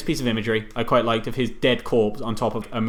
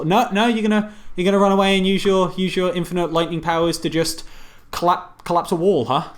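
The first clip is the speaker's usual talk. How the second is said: higher, mock-incredulous rebuke; sarcastic scolding; 5 semitones higher than usual. Podcaster chiding Raiden for collapsing a wall, sarcastic. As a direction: needle him over his useless plan.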